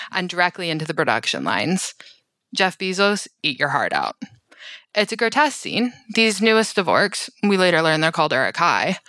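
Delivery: lively storyteller reading a film recap; dramatic recap narration. Acted. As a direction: narrate it like a witty documentary. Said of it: "congratulate Emily on just an amazing recap".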